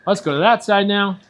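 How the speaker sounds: loud, high swim cues; echoey pool coach shouting. Real, not acted. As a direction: call the strokes across the water. Coach calling strokes to child.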